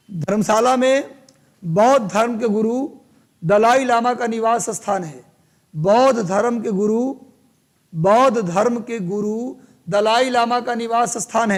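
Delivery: phrase-by-phrase dictation with pauses; teacher spacing out words for note-takers; classroom dictation. Real, not acted. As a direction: dictate in chunks, lifting at the phrase ends.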